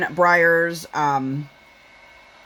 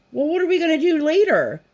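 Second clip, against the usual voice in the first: much higher mimicked child voice; imitated pestering daughter; 11 semitones higher than usual. Mom imitating daughter who keeps asking for plans, pestering. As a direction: pitch it way up like an insistent kid. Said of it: "now our daughter, seven thousand times a day".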